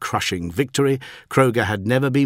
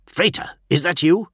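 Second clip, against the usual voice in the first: higher, urgent query; startled question; 9 semitones higher, 4 dB louder than usual. A narrator's reading. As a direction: ask in startled disbelief. Startled captain answers urgent radio call.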